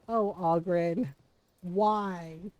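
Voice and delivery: low, drawn-out weary groan of words; mock-pained, slow and low; exasperated dismay. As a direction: lament it slowly and low, despairing of a friend. Dismayed reaction to crude pickup line.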